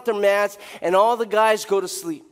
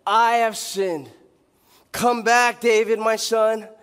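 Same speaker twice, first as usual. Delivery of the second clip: raised voice, a touch of urgency; calling out; 4 semitones higher, 4 dB louder, slower than usual. Acted. Saul to David after being spared, calling out. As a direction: call out the confession, slightly raised. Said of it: "he calls out".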